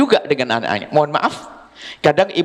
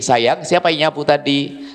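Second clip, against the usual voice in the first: gentle mother; 3 semitones lower, slower than usual. Shown as a demonstration. Mother gently asking her child who swept, tender. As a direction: ask sweetly, no blame. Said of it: "Kenapa Anda tidak berkata begini".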